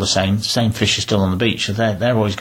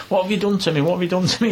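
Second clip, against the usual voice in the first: old man voiced; 10 semitones higher, faster than usual.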